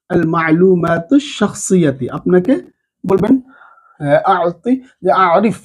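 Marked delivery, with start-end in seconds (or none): 0.1-2.1 slow, even আল মা'লুমাতু শাখসিয়াতি; slow demo. Shown as a demonstration. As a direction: model the whole phrase carefully. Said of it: "জবর জের লাগিয়েও নিতে পারবেন". (ধীরে পুরো বাক্যাংশ)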